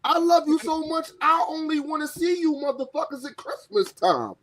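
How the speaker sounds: mock promo. Voices the wrestler's emotional promo.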